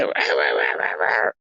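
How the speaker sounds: very low worn-out voice, wordless babble; low, failing end-of-stream voice; voice going. Shown as a demonstration. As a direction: demonstrate your voice giving out, dropping right down. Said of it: "my voice just goes on me".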